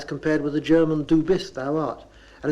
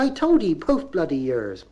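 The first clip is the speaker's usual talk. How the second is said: Bristol mother. Retold or imitated. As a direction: lift every line up like a question. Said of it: "She said".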